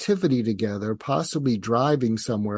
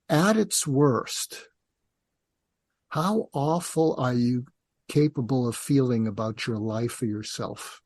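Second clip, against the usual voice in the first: said calmly. Shown as a demonstration. Parent calmly asking the teenager how bad it gets. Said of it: "and you say it calmly".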